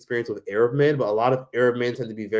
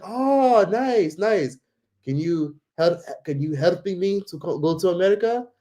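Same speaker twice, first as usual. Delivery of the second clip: much higher, excited pleading stranger; mock hopeful stranger; 5 semitones higher, slower than usual. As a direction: beg eagerly to be taken to America. Voicing shop guy asking.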